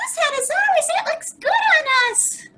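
very high, squeaky little mouse voice. Reading a children's story aloud, voicing the little mice: squeaky mouse voice. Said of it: "the little mice squeak".

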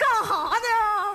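slow mock sobbing.

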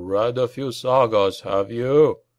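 ordinary delivery, nothing marked

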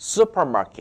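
weight on first syllable su- in supermarket. English pronunciation lesson: stress at start of supermarket. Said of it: "발음이 앞에 있으니까 뒤에가 강세가 죽어요".

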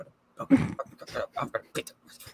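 hushed, menacing whisper across close distance. Mocking a claim that a man whispered threats at a table: imitating a whispered threat. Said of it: "sitting at the table whispering to her".

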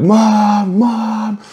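high calling yell with mom stretched long. Retelling trying to wake their sleeping mom: retelling yelling for mom. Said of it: "I was just like yelling like".

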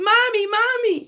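mock high scream of a small boy. Storyteller acts out a child calling for his mother, retelling Charlie screaming. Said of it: "And he starts screaming".

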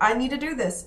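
ordinary talk

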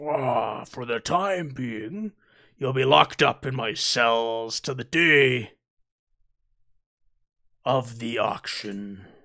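lordly alien drawl, words stretched long. Game master voicing a robed Hutt addressing the players he is locking up, Hutt character voice. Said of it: "and sitting at the far end of it is a Hutt garbed in robes. ... I am the Hutt".

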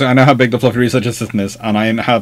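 ordinary talk, nothing marked

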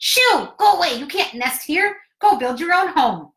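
squeaky, high-pitched shout. Reading a story aloud, narrator voices a head popping up: Mr. Beaver squeaky shout. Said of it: "a squeaky voice shouts".

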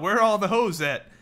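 screamed at full tilt, high and loud. Describing protesters, retelling a man in a scream battle: retelling a protester's scream. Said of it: "just screams out".

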